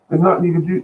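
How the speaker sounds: talking himself out of it, pitch climbing; mock alarmed pleading. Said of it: "I'm gonna say".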